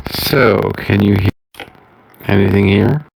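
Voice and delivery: sleepy robot voice. Real, not acted. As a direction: sound like a dragging broken connection. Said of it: "you're still sounding like a sleepy robot".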